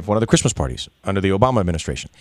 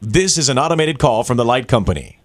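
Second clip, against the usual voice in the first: steady automated recorded-message voice; phone menu voice; 3 semitones higher, 6 dB louder than usual. Acted. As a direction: read it like a robotic phone menu. Prank caller plays automated phone line.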